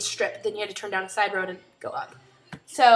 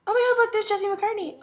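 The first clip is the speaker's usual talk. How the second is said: mock excited; 11 semitones higher, 3 dB louder than usual. Running joke voiced excitedly.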